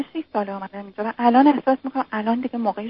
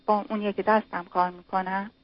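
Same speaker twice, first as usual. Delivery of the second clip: fading to a soft, quiet voice; trailing down until hard to hear; voice dropping; 7 dB quieter than usual. Real, not acted. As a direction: let the volume sink as you explain. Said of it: "صدات باز رفت پایین".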